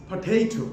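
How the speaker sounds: potato as "puh-TAY-toh"; teacher's model of potato, middle syllable drawn out; correct pronunciation. Shown as a demonstration. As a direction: stress a long "TAY" in potato. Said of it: "পটেটো বলবো না আমরা".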